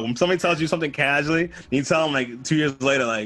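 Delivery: ordinary delivery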